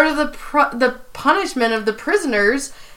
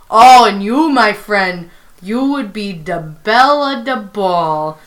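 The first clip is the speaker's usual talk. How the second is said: lightly voiced New York accent; a hint of a bad New York convict accent; Prison Mike; 3 semitones lower than usual. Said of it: "really bad New York accent".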